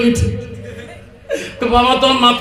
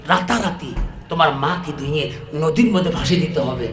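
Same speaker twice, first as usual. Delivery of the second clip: low, soft conspiratorial exchange; quiet, low-pitched scheming; hushed plotting; 6 semitones lower, 6 dB quieter than usual. Acted. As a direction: drop right down as if plotting in secret. Couple plot secretly at night.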